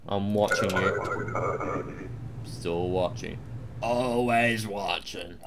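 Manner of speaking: soft, slow menacing murmur; creepy warning. Pretend. Guard warning a traveller, softly menacing. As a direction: make him feel watched.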